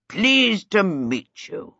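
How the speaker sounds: put-on very slow little-boy greeting; sweet lisping child. A narrator's reading. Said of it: "answered in a sweet, lisping voice".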